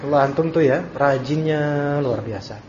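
loud, mocking praise of a lazy student; sarcastic scolding teacher. Teacher mockingly scolds a late student, loud sarcasm. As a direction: scold with exaggerated sarcastic Masya Allah. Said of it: "kayak marahnya seorang guru yang sayang pada muridnya".

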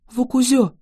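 a high joyful cry of his name. A narrator's reading. Girl sees her friend wake up, crying out his name with joy. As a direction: cry out with relief. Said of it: "вскрикнула она".

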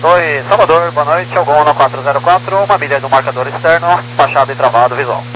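thin, distant radio voice; crackly military radio. Real, not acted. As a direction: heard through a crackly cockpit radio. Pilot calling tower on approach.

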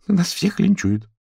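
panicked, drawn-out wail; fearing the worst, pitched high; alarmed. A narrator's reading. Alarmed character in story.

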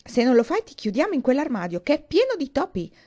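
bully her loudly with the closet and the mice; loud threat. A narrator's reading. Kurt threatens Dee with the closet, a loud teasing threat. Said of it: "disse Kurt".

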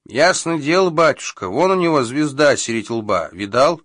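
high squeaky little crow voice. A narrator's reading. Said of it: "пискнула другая".

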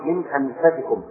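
أنفسكم with a short a after the f; variant reading, fatha. Shown as a demonstration. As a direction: say أنفسكم as anfasikum. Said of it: "قراءة أخرى".

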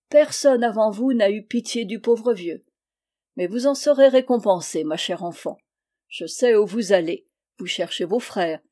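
lightly voiced, animated old man; a touch of old-man earnestness, emphatic; grateful little old man. Freed old man counselling his rescuer, grateful and earnest.

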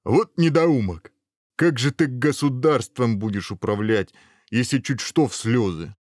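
mildly exasperated ogre telling someone off; exasperated scolding. Acted. Ogre scolding the prince for tearing up, exasperated.

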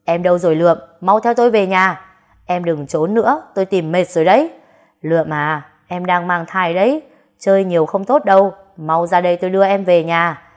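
loud searching call through the house. Acted. Husband calls out loud for his missing wife. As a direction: call for her in every room. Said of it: "miệng không ngừng kêu tên Lượm".

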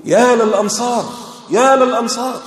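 imitating a crier summoning his people; battlefield herald's call. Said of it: "جعل المنادي ينادي".

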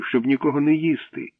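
mild, plaintive longing; sad. A narrator's reading. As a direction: plead gently in a girl's high voice. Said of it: "сумно запитала Катя".

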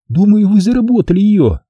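a hostess teasing the guest, cheerful. A narrator's reading. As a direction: say it with a grin. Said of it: "весело улыбнулась она".

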